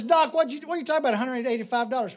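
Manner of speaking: high, loud protest at a bill; mock indignant disbelief. Dog owner challenges the vet's bill, mock outrage. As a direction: balk at the price like an outraged customer.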